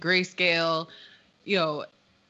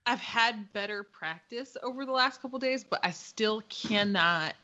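with a sore jaw. Real, not acted. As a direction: mouth half open, sore gums. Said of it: "cannot open the left side of my mouth".

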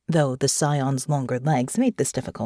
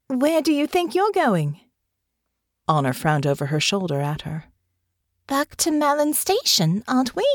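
put-on young woman's voice, pitched higher, puzzled; a lightly raised young voice, questioning; Honor, young woman; 6 semitones higher than usual. A narrator's reading. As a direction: younger heroine asking, confused.

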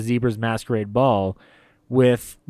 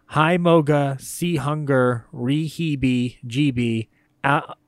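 rattled off without a breath; all in one breath; 2 semitones higher, slower than usual. Real, not acted. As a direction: rush the list in one breath. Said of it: "I'm, I'm out of breath".

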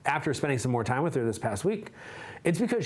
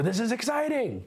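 excited; 10 semitones higher than usual. Retold or imitated. Voicing people entering a room.

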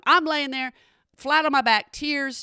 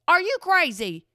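higher, incredulous outburst; disbelieving outcry; 6 semitones higher than usual. Real, not acted. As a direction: throw it at them in disbelief.

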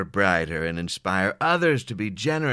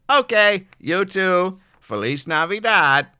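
loud chipper; 9 semitones higher, 8 dB louder, slower than usual. Acted. Loud chipper phone sign-off.

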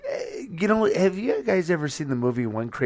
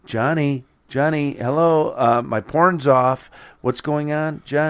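acted calling out; 3 semitones higher, 5 dB louder than usual. Retelling black comic panels as the character, calling out. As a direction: call out in imitation, growing louder.

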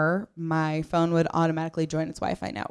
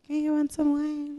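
perky hostess; 10 semitones higher, 5 dB quieter than usual. Retold or imitated. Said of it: "kinda like".

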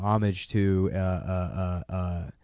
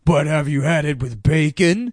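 mock salesy pitch; 4 semitones higher, 6 dB louder than usual. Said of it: "everything was like".

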